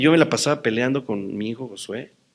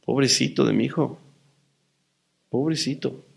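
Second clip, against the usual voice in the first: tender pity; 4 dB quieter than usual. Real, not acted. Pitying his son.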